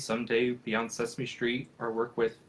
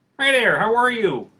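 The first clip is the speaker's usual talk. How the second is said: squeaked out, high-pitched and loud; 11 semitones higher, 12 dB louder than usual. With the puppet found, the speaker does a little impersonation: Kermit the Frog impression. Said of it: "Just a little impersonation".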